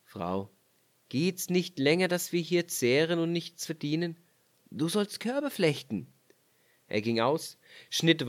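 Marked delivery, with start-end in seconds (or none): 0.0-6.1 leicht gespielter Ehemann, fordernd; Mann spricht. Acted. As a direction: ein Hauch von strengem Ehemann. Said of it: "Da sprach der Mann". (der Mann weist seine Frau an, leicht gespielt)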